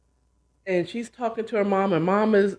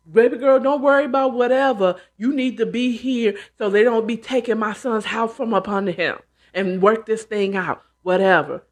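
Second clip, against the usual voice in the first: bossy mother-in-law; 3 semitones higher, 4 dB louder than usual. Retold or imitated. Mother-in-law demanding loudly.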